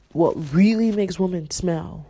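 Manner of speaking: giggling through the repeated phrase; amused, breaking into laughter; laughing repeat. Real, not acted. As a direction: laugh as you say it again.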